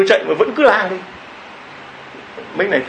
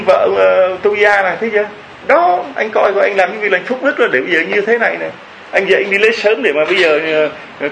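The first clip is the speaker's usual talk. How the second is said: higher and complaining throughout; scolding wife; 4 semitones higher than usual. Retold or imitated. Acting the wife's scolding.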